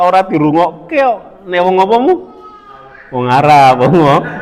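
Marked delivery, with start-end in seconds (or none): 1.5-4.3 mock confused exchange. Acted repeat of mishearing dialogue.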